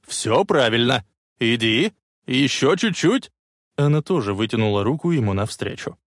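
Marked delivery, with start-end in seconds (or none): 0.1-3.3 coaxing someone onward; encouraging calls. A narrator's reading. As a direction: urge gently but firmly from a distance. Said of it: "ободряюще кричал он". (ободряющие возгласы)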